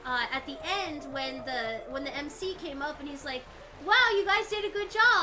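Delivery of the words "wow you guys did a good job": loud excited emcee. Retold or imitated. Emcee quoted congratulating them.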